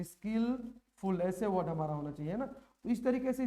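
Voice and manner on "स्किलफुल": स्किलफुल said slowly and carefully; slow model word. Shown as a demonstration. Teacher to students showing the correct word, slow and deliberate. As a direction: lay out स्किलफुल so the spelling shows. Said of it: "ऐसे होना चाहिए था".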